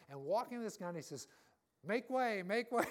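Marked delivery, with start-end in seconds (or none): 1.9-2.9 loud, high barked order; commanding shout. Retold or imitated. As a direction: order the crowd aside with force. Gunman orders crowd aside.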